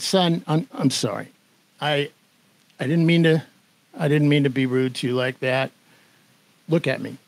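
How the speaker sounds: subdued and sincere, with hesitant pauses; retold apology. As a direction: gently imitate an older man saying sorry. Older writer's apology, retold.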